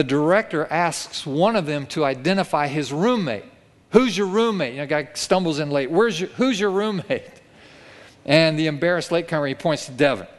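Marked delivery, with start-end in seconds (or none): 3.9-4.7 bandleader question. Retold or imitated. Director questions latecomer. 5.9-7.3 bandleader question. Retold or imitated. Director questions latecomer.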